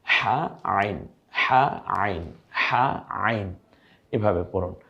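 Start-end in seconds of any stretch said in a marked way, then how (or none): 0.0-3.5 হা pressed hard from the throat, drawn out slowly; throat-pressed Arabic letters. Shown as a demonstration. Teacher drilling students, slow throat-pressed হা and আইন. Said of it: "গলায় চাপ দিয়ে হা".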